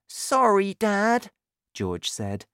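put-on high little boy voice; George, apologetic. A narrator's reading. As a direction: voice a sorry young boy.

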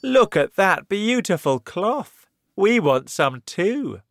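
loud, high, amazed cries; excited shout. Acted. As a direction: gush loudly over the cloth. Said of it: "They shouted".

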